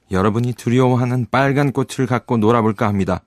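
lightly voiced defiant young Mowgli. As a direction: address the pack with firm defiance. Mowgli addresses the wolf pack.

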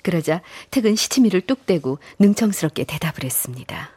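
hushed storyteller aside; story narration. A narrator's reading. Narrator describes Teuk's sly answer, hushed storytelling.

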